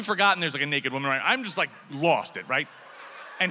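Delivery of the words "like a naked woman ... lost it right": ordinary talk, nothing marked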